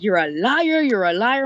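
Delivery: mildly accusing, leaning on "liar"; playfully accuse, as if quoting him; mock accusation. He accuses the speaker over the recordings, lightly mock-accusing.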